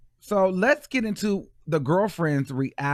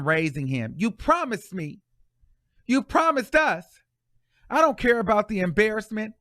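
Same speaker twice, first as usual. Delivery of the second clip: reading her post in a much higher, pleading voice; triggered ex-girlfriend; 7 semitones higher than usual. Retold or imitated. Reading the ex-girlfriend's post to her man, high and pleading. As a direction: pitch it way up and beg. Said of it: "she's got really triggering here".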